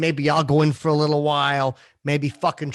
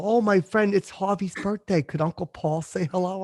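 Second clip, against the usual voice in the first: higher-pitched pleading customer; lightly mocked, higher requester voice; imitated fan request; 4 semitones higher, 4 dB quieter than usual. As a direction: mimic a fan asking a favor. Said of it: "A lot of times they'll".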